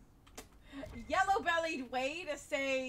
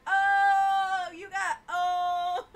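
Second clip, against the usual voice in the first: put-on kid amazed; 6 semitones higher, 14 dB louder, much slower than usual. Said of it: "I was like".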